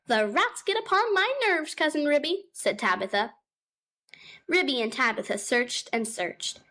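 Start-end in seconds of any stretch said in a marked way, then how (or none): 0.1-2.5 high, fussing cat voice; a worried cat housewife, pitched up; fretful mother cat. Acted. Mother cat Tabitha greeting her cousin, high and fretful.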